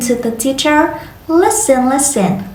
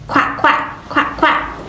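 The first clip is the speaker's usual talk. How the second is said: whispered quack; 4 dB quieter than usual. Shown as a demonstration. Teacher imitates duck.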